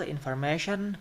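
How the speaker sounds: informAtion, with the MA syllable strongest; stress on MA. Shown as a demonstration. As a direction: stress information on MA, just before -tion. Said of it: "stress will be in the middle part".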